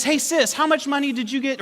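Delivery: high, singled-out question to sister; teasing call-out. Retold or imitated. Brother mischievously asks his sister before the family, piping up. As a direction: pipe up so everyone can hear.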